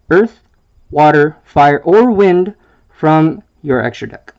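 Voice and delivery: breathless, puffing between words; out of breath. Real, not acted. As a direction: read it winded, short of air. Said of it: "Sorry, I'm a little out of breath".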